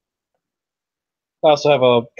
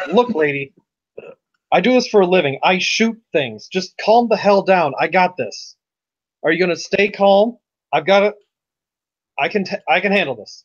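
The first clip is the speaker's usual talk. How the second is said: firm merc telling her to calm down; tough reassurance; 5 semitones higher than usual. Acted. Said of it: "be like".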